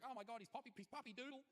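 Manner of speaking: wife's hysterical gasp. Retold or imitated. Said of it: "She was like".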